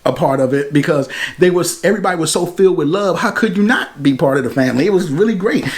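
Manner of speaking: wet, spitty speech; talking with too much saliva; spitting while talking. Real, not acted. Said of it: "Man, I'm really spitting out here".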